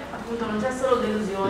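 muffled behind a heavy mask; through a face mask. Real, not acted. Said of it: "La voce un po' più alta".

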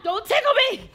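high laughing protest; being tickled. Real, not acted. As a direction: squeal while being tickled.

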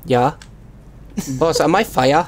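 hammed-up Chinese-style accent in broken English; mock broken-English accent. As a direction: play a delivery driver with a crude Chinese accent. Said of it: "the worst and most offensive accent".

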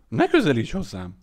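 loud, warning yell; roared. A narrator's reading. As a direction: bellow to keep him away. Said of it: "ordította".

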